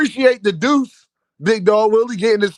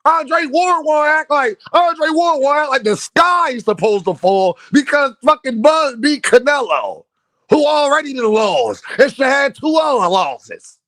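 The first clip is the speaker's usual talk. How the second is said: heated rant; 5 semitones higher than usual. Real, not acted.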